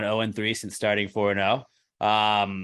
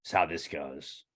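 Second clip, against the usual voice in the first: caveman; 5 semitones lower, 4 dB quieter than usual. Retold or imitated. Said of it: "makes you feel like a caveman".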